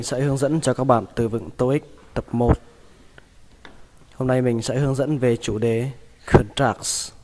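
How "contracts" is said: careful English pronunciation of "contracts"; English word demo. Shown as a demonstration. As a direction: say "contracts" slowly, English style. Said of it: "Từ này các bạn đọc là".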